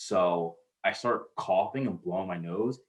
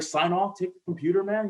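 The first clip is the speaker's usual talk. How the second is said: much higher, easygoing boss voice; imitating young boss; 10 semitones higher, 3 dB louder than usual. Boss telling intern to go out, mock high voice. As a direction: play the chill boss waving him off. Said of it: "he's like".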